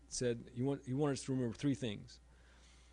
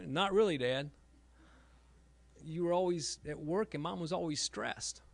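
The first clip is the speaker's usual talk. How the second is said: blunt reply; 4 semitones higher, 4 dB louder than usual. Retold or imitated. Daughter quoted blunt reply.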